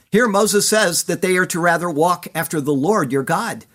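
ordinary talk

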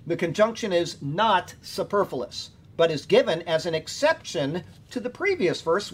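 measured, emphatic reading of study notes; commentary read aloud. Real, not acted. Teacher reading verse notes to a class, deliberate read-aloud. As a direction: read it out deliberately, leaning on key words. Reads own written commentary.

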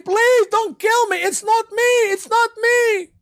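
very high, loud, slow desperate begging; pleading scream. Retold or imitated. Judas begging the soldiers not to kill him, high pleading scream. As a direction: beg for your life. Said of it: "He's screaming".

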